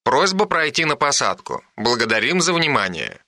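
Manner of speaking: calm, measured PA announcement; airport announcement. Acted. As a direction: read it like an airport tannoy. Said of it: "раздался голос по радио".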